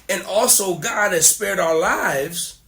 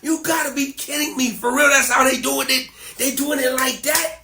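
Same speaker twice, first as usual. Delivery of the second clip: higher-pitched retold incredulity; mock disbelief; 5 semitones higher than usual. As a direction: act lightly floored by what you just heard. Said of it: "I'm cracking up".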